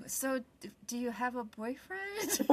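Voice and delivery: soft, slow whispered hint; sly probing question; a hushed knowing mother; mock whisper.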